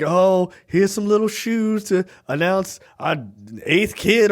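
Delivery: mock cheerful wife. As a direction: lightly chirp it like a happy wife. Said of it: "she's like".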